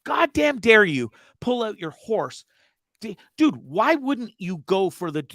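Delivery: slow, stressed outrage; indignant rant; outraged. Real, not acted. Outraged rant at horse owners.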